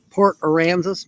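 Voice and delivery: "Aransas" said as uh-RAN-zus; tentative pronunciation. Shown as a demonstration. Vlogger settling on a place name, "Aransas" said as uh-RAN-zus. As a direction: try "Port Aransas" with the stress on RAN. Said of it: "maybe that's how you say it".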